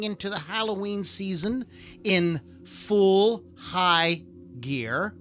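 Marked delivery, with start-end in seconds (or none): 2.6-5.1 full HIGH gear, stretched slowly on high; stress on high. Shown as a demonstration. Podcast host jokes about the Halloween season, stressing high. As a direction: lean hard on the word high. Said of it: "Emphasis on the word high".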